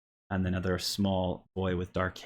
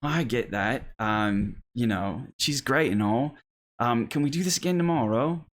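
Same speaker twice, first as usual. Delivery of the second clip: lightly voiced child, somewhat higher; young girl; 4 semitones higher than usual. Girl asks to play again tomorrow, lightly childlike. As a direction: placate a playmate, then ask hopefully. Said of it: "he says".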